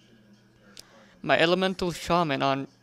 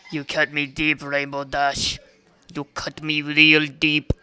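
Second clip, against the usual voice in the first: mock hurt; 4 dB louder than usual. Mock wounded reproach.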